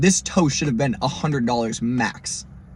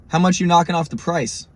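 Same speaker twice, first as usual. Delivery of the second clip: firm question, pitched up; pointed, higher-pitched haggling; serious haggling; 5 semitones higher than usual. Retold or imitated. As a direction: retell a no-nonsense demand for a discount. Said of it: "And I'm serious".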